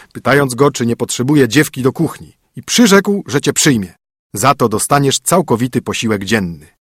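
brisk, bossy husband; stern husband. Acted. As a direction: lay down the rules to the spoiled princess. Husband voice again.

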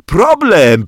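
high, loud, giggly "Problem". Acted. Bodzio giggles to the teacher, high and loud. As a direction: say "Problem" high through giggles, holding your belly. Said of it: "tłumaczył, trzymając się za brzuch".

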